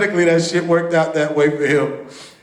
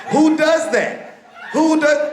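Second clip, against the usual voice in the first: incredulous; 8 semitones higher, slower than usual. Real, not acted. Outraged rhetorical question, laughing.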